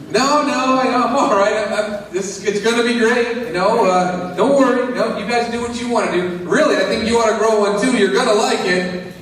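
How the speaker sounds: high, over-eager Tommy; defensive Tommy. Retold or imitated. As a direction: insist you're fine, a little too hard. Tommy voiced answering neighbor.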